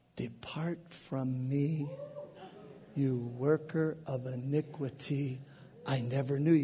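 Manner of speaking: low, soft, judgmental whisper.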